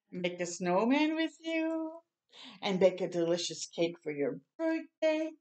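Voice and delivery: gentle storybook reading voice; reading to children. Acted. Reading picture book aloud.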